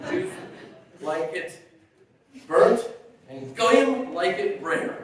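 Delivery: slow, laughing punchline; laughing slowly. Real, not acted. Son delivering the meat joke to mourners, slow and laughing. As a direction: draw out the joke while laughing.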